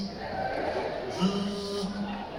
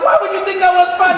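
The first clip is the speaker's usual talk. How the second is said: exasperated self-quote; 11 semitones higher, 3 dB louder than usual. Retold or imitated. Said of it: "I was like".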